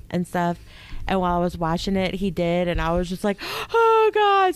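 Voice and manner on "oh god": high, loud wail of dismay; mock bawling. Co-host reenacts crying at the documentary, hammed-up wail. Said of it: "I'm bawling my eyes out".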